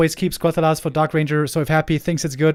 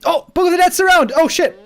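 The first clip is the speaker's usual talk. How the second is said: high, loud startled shout; excited shout; 13 semitones higher, 6 dB louder than usual. Real, not acted. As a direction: yell it like the hero is trapped. Caster sees surround on hero.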